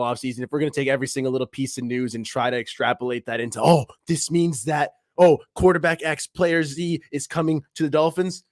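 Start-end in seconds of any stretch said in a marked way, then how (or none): 3.6-8.4 higher-pitched mock excitement; mock-excited speculation. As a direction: imitate an overeager rumor-monger jumping to conclusions. Mimicking fans' hasty rumor leaps.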